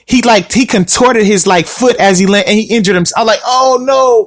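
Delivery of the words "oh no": drawn-out, higher cry of dismay; mock dismay. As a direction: groan it out as the retold reaction. Retelling dismayed reaction to injury.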